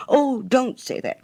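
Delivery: high, slowed, pleading protest; anxious cry. Acted. Hans protesting to the miller that he is no unfriendly man, high anxious cry. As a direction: beg him not to think it. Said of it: "cried little Hans".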